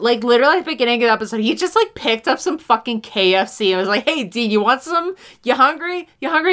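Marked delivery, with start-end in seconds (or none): 4.0-6.5 casual offer rising in pitch; mock nonchalant, questions lifting higher; breezily cavalier. Imitating Bobby casually offering Dean food, breezily cavalier. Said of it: "He was weirdly cavalier about this shit".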